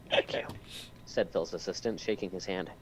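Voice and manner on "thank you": whispered. Acted. Assistant's line whispered.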